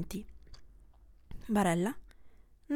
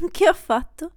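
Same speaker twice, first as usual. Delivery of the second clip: a loud laughing Che ho fatto?, pitch up; Che ho fatto? laughed out loud, higher; giggling disbelief; 3 semitones higher, 5 dB louder than usual. Acted. Repeats the question, laughing.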